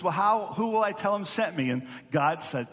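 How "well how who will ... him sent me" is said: higher-pitched, lightly acted worried question; doubtful questioning. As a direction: voice Moses unsure of his orders. Moses questions God's command.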